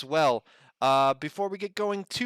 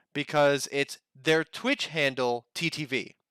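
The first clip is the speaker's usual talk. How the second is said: talking around a hair in mouth; slowed by something in the mouth. Real, not acted. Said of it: "I got, like, a hair in my mouth".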